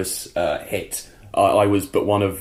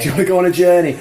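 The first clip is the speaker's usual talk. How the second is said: louder, higher Doctor-style line; dramatic trailer voice; 6 semitones higher, 5 dB louder, much faster than usual. Shown as a demonstration. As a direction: deliver it like the Doctor. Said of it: "echoes it as a trailer voice".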